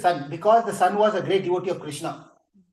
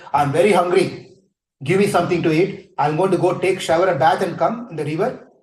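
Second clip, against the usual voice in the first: loud, commanding demand for food, louder; angry sage demanding; 4 dB louder than usual. Retold or imitated. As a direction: order them about like an angry sage. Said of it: "he is a great angry guy".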